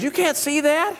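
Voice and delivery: high-pitched incredulous question; imitated incredulity. Wife to husband about the church scoreboard, mock disbelief. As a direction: play an astonished wife, voice jumping up.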